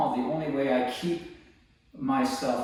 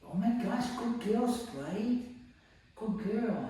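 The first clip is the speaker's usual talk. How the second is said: high delighted praise; 10 semitones higher, 4 dB quieter, slower than usual. Real, not acted.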